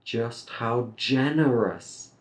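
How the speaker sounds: generous lifted on its first syllable; stress on GENEROUS. Shown as a demonstration. Teacher has students practice stressing, generous emphasized. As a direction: make generous the peak of the phrase. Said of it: "You can practice stressing that word".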